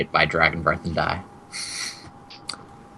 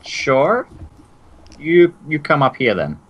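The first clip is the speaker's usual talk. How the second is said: woman NPC; 8 semitones higher, 4 dB louder than usual. Acted. Woman NPC answers from above.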